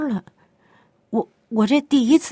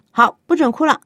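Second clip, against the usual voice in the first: loud, high mock order to stop crying; snapping at a child; stern parent; 8 semitones higher, 5 dB louder than usual. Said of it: "有的做父母的呢".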